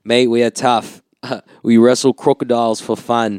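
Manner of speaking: lightly voiced Aussie mate, tough and proud; a hint of an Australian bloke bragging; Australian accent. Friend boasting about Australians, a light Australian accent. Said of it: "I'm always just doing my Australian accent".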